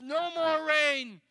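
furious farmer forbidding rain; angry decree. Acted. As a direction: bark it at the sky, drawn out. Farmer commanding the clouds.

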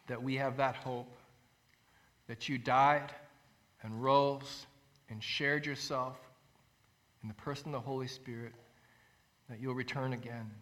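soft, low prayer with pauses. Acted. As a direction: pray quietly, letting each phrase settle. Closes in prayer.

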